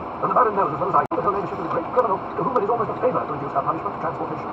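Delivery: high, loud lordly voice; haughty Duke, insistent. Acted. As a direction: lay down the verdict as a nobleman.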